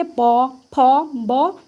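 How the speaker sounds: प, फ, ब each said with both lips closing; demo of lip sounds. Shown as a demonstration. Teacher sounds out प, फ, ब for students. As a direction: pop प, फ, ब off the lips one by one. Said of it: "तो प आप बोल के देखिए".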